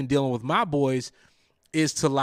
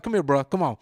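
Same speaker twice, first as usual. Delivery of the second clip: retold soft coaxing; 2 semitones lower than usual. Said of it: "I'm like".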